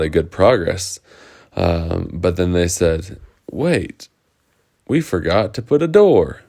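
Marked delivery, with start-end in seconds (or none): 3.5-6.4 higher, alarmed exclamation; sudden realisation. Acted. Builders noticing their fort has no door, higher dismayed realisation. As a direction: blurt it as the mistake dawns.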